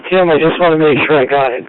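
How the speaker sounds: ordinary talk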